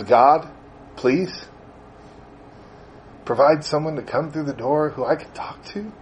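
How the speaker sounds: acting out a quiet, halting prayer; pleading prayer. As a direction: plead humbly with long pauses. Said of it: "gets on their knees every day".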